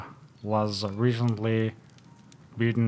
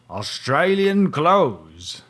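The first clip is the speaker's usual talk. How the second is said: excited clue; 5 semitones higher, 7 dB louder, slower than usual. Acted. Detective listing clues.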